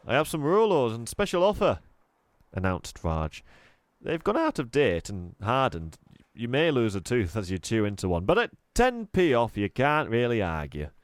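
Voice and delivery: jolly salesman pitch, lightly voiced; cheery shopkeeper. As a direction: sell the stale sweets with a grin. Raj pitching stale Rolos.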